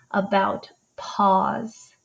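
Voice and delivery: whispered question. Acted. Teacher quizzing child softly.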